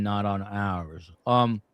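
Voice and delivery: talking while crunching ice; words around an ice cube; chewing ice. Real, not acted. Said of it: "apologies as I chew on an i".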